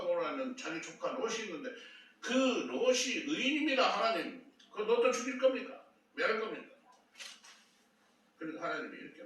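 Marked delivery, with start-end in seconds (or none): 2.2-6.8 indignant protest. Acted. Abraham acted protesting to God.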